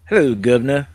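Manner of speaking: hammed-up British "governor" greeting; jokey mock British accent. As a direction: play at a cheeky British accent. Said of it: "I do it with British accent".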